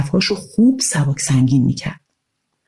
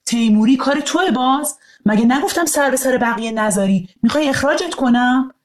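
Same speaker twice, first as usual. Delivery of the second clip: higher, scolding headmaster voice; stern principal; 6 semitones higher than usual. Acted. Principal scolding the bully in the schoolyard, stern. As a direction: tell off the boys firmly.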